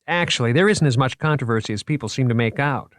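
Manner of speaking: proud museum man showing off his finds; eager curator voice. Acted. The speaker's character voice.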